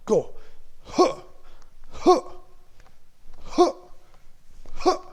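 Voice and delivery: loud, explosive kiai shouts; big samurai voice. Shown as a demonstration. Instructor leading the class in samurai kiai, big shouts. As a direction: bark each one like a samurai strike. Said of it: "la grosse voix de samouraï".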